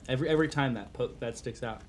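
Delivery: talking with food in mouth; chewing while talking. Real, not acted. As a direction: talk around a bite of pizza. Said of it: "I'm totally talking while I'm eating".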